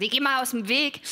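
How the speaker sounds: gruff Berliner. Retold or imitated. Actress quoting a blunt stranger at the station: lightly gruff Berliner. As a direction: bark it out like a blunt commuter. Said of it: "jemand sagt".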